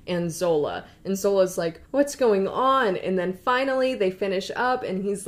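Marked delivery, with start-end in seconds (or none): 1.9-3.0 higher, louder, drawn-out disbelief; mock bewilderment. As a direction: act out a baffled onlooker. Baffled bystander quoted.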